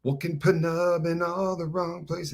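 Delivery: put-on slow, garbled childlike consonants; Buckwheat. Reading a fan's comment as Buckwheat singing the classics, garbled. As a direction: mangle the lyric with childish mispronunciations. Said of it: "Buckwheat sings the classics".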